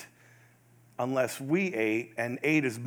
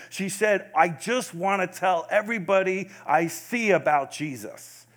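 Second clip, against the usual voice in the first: passionate; 4 semitones higher, 3 dB louder than usual. Retold or imitated. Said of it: "you could just hear the passion".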